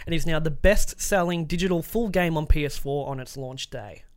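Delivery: scripted games-news read. Acted. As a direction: read the story out like a presenter. Reads out a news story.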